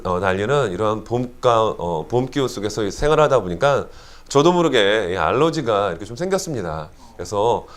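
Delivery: blocked nose from allergies; stuffy nasal voice. Real, not acted. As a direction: talk through a stuffed-up nose. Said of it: "약간 코맹맹이 소리로".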